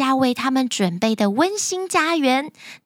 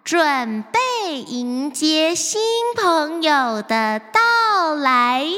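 slow, drawn-out announcement; radio announcer voice; slower than usual. Acted. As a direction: announce it slowly over the radio. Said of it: "泡芙妹妹的广播声".

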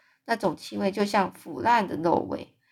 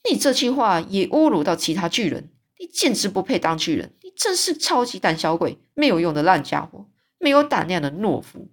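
louder, insulting tirade; angry yelling; 3 dB louder than usual. Acted. Giant scorning the BFG as a coward, angry yell. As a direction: hurl the insults at him. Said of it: "嗜血巨人大叫说".

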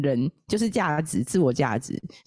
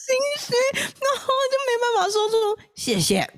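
whispered thanks. Retold or imitated. Can't bring herself to say thanks.

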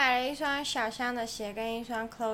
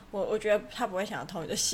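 chill Canadian; 5 semitones lower, 4 dB quieter, faster than usual. Retold or imitated. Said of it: "加拿大人就非常chill".

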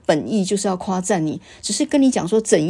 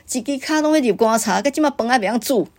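harsh scolding in Taiwanese; 4 semitones higher than usual. Retold or imitated. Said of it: "这个话是非常严厉的".

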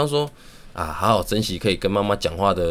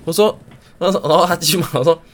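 laughing while telling; 10 semitones higher, 7 dB louder than usual. Real, not acted. Laughing at own joke.

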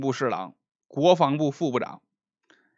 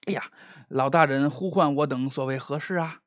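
put-on old secretary voice; 4 dB quieter than usual. Secretary's voice, old-style speech.

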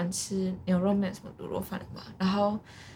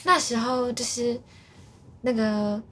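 put-on Japanese accent. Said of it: "一段日本腔那样子".

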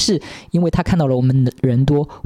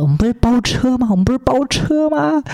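much higher, incredulous; exasperated disbelief; 12 semitones higher than usual. Retold or imitated. Recalling what she wanted to tell the driver, incredulous and high. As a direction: protest in disbelief, voice climbing. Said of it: "我当时想说".

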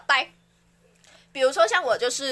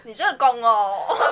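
fortune teller; 5 dB louder, slower than usual. Acted. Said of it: "我学算命师啊".

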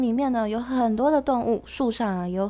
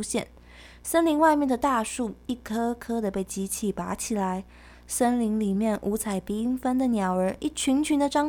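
put-on reading to a toddler; 2 semitones higher than usual. Reads the picture book story.

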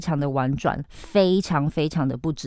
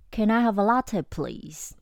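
polite request; 4 semitones higher, 3 dB quieter than usual. Shown as a demonstration. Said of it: "或是".

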